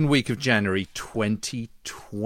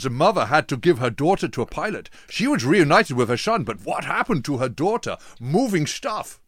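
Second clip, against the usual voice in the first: a hint of a sexy Dutch accent reading an email; playful Dutch accent, words stretched on "Moving stuff"; mock Dutch accent; 3 semitones higher than usual. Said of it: "you gotta do a sexy Dutch voice".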